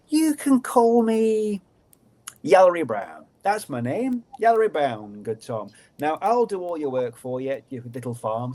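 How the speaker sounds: a sly little goblin offering help; lightly voiced small creature, sly; fairy creature voice. Little creature to Tom, lightly sly goblin voice.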